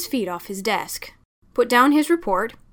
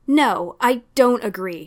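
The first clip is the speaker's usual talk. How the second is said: louder, curt snap of refusal; snapped; 2 semitones higher, 5 dB louder than usual. Acted. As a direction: bite the refusal off sharply. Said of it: "she snapped".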